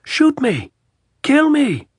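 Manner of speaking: high, loud dare; captain daring the enemy to fire; defiant shout. A narrator's reading. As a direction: scream it at the hill.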